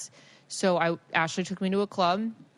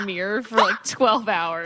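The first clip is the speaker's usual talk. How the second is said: laughing; 4 dB louder than usual. Real, not acted. Laughing while telling.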